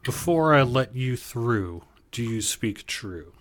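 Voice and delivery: slow, questioning guard voice; slow wary guard. Acted. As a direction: test their honesty slowly. Guard tests the hunters.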